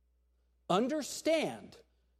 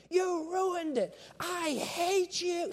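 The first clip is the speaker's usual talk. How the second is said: put-on much higher, slow wailing kid; screaming child; 11 semitones higher, much slower than usual. Preacher retelling a boy's tantrum over ice cream, high wail. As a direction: wail it like a five-year-old in a tantrum. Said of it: "The son started screaming".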